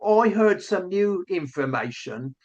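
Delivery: put-on lightly done Essex accent, halting; mock Essex accent, stumbling over words. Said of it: "if I'm gonna do the Essex accent".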